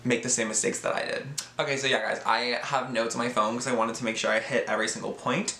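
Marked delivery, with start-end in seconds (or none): 1.6-5.6 talking while chewing gum; gum in mouth. Real, not acted. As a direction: speak around a piece of gum. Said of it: "I realize I talk like a valley girl when I have gum in my mouth".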